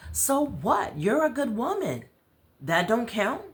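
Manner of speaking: high, loud, pushing back; indignant challenge. Acted. Aubrey pushes back on her friend, indignant and high. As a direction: call her out on selling herself short.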